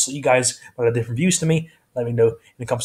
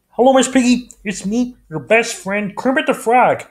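Kermit the Frog; 9 semitones higher than usual. Shown as a demonstration. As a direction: coo a high love note to Miss Piggy. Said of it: "his impression of Kermit".

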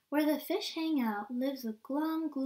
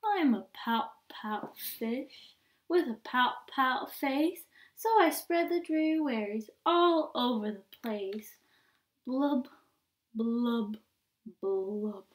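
sing-song mope of a pouting fish; droopy refrain, blubs trailing off; glum pout pout fish; 2 semitones lower than usual. Acted. Refrain again.

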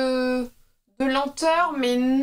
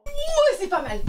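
impressed ooh; 13 semitones higher, slower than usual. Real, not acted. Reacting to a new feature.

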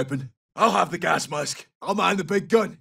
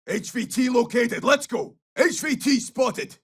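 urgent target callout; 6 semitones higher than usual. Acted. Excited target callout in game voice lines.

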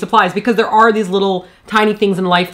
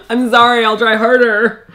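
laughing, drawn-out put-on apology; mock apology; slower than usual. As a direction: stretch it out slowly, feigning contrition. Mock apology for criticised accent.

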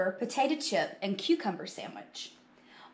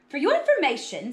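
raised, loud comeback; indignant retort; 5 semitones higher, 5 dB louder than usual. Acted. Carla defending her lunch to Buster, indignant retort. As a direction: put the teaser firmly straight.

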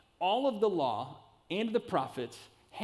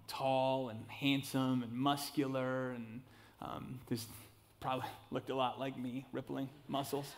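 deadpan joke aside; 4 semitones lower, 6 dB quieter than usual. Real, not acted. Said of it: "how many of you laughed at that".

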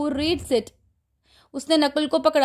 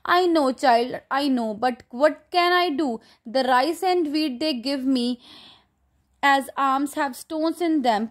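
reading the story slowly to the class; slow reading aloud; much slower than usual. Acted. Teacher reading the textbook to the class, slow and deliberate. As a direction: read each word out slowly for students. Teacher reads old monk's lines.

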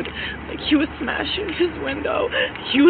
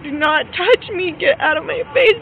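raised, emphatic warning in a retelling; retold warning; 4 semitones higher, 4 dB louder than usual. Woman retelling how she warned him off, firm and heated. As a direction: push the quote higher, each demand firm.

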